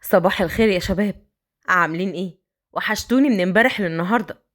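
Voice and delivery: put-on a man coaxing the girl upstairs.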